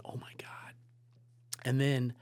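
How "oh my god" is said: soft unvoiced whisper; inner whisper. Panicking man whispers to himself in the meeting, whisper. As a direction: breathe it out in shock. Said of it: "in my own head going".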